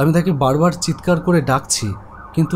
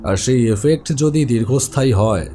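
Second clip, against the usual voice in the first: calm doctor; 5 semitones lower than usual. Acted. Doctor explains dreams calmly.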